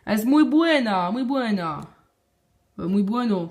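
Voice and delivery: playful put-on Spanish accent. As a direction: speak Spanish with an amateur imitation accent. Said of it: "Mon accent espagnol". (faux accent espagnol)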